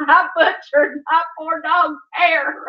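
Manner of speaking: slow, laughing wail of a confession, near crying; confessing her sin through laughter and tears. Retold or imitated. Confessing to Saint Peter on Judgment Day, slow, laughing wail. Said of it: "I'm gonna have to say to Saint Peter".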